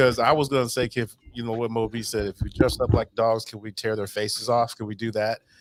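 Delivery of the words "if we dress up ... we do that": usual speaking voice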